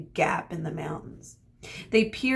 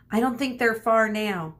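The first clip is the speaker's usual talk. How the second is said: raised voice calling back; shouted back; 4 semitones higher, 5 dB louder than usual. Acted. Medusa shouting back to Mino, raised voice. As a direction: call back over the wind. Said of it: "Medusa shouted back".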